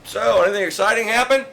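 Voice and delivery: high, loud mock-mom question; imitated curious mom. Mom asks if anything exciting happened, imitated high prying voice. Repeats mom's question for effect.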